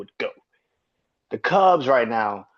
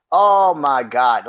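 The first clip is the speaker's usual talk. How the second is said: exasperated groan; 6 dB louder, slower than usual. Real, not acted. Exasperated after rant.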